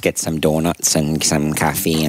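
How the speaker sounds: put-on Canadian accent. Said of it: "I wanna hear that accent again".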